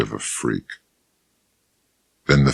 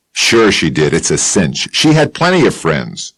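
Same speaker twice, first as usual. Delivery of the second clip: Bill Chess voice; 3 semitones higher than usual. Acted.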